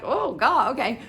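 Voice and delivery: exasperated reaction. Retold or imitated. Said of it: "I was like".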